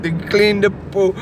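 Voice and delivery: mock Brazilian accent; stereotypical accent. Host copying co-host's pool cleaner, mock Brazilian accent. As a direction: echo it in a bad Brazilian accent. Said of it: "It's a stereotypical sort of".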